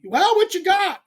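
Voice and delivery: high, loud mock call; rival anglers calling out. Rivals finding him midday, high mocking shout. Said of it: "Roland and Blockett found me".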